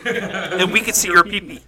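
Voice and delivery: giggling through the words; laughing mock threat; laughing tease. Real, not acted. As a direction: tease him while laughing. Teasing friend about peeing outside.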